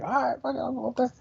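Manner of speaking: mock reluctant agreement; reluctant giving in. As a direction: give in with a sigh of fine, whatever. Reluctant self-quote.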